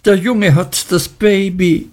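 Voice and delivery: high horrified exclamation; horrified cry. A narrator's reading. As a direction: panic that the boy holds the baby. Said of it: "rief Miss Murdstone". (hoher, entsetzter Ausruf)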